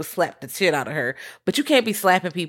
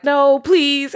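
higher, a touch of begging; mock pleading; 8 semitones higher, 4 dB louder than usual. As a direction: lightly beg like he's desperate. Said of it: "So he's like".

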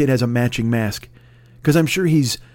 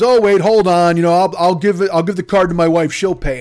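mock flustered customer; 3 semitones higher, 5 dB louder than usual. Customer to the manager taking his card, mock flustered. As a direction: scramble to save the sale, louder. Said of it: "the guy goes".

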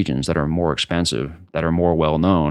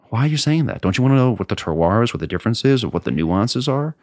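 pitched way up, incredulous and pleading; higher, exasperated disbelief; exasperated retort; 5 semitones higher than usual. Retold or imitated. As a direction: ask it like you can't believe they'd say that. Exasperated retort to wine snobs.

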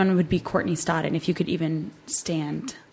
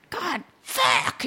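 mock exasperated outburst, higher; 5 semitones higher than usual. Reacting to someone annoying, mock exasperated.

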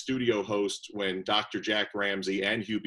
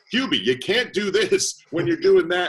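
raised, heated arguing voice; mock yell; 8 semitones higher, 8 dB louder than usual. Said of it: "kinda yell at each other".

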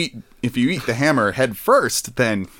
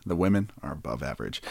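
Garrison Keillor impression; 9 semitones lower, 9 dB quieter, faster than usual. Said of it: "He s-, breathed into the mic a lot".

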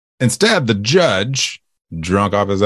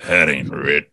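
put-on old prospector; 5 semitones lower than usual. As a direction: rumble it like an old miner. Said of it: "Oh, my old prospector".

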